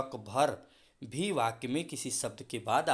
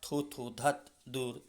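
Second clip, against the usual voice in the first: disgusted exclamations; slower than usual. Shown as a demonstration. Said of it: "घृणा की भावना आती है".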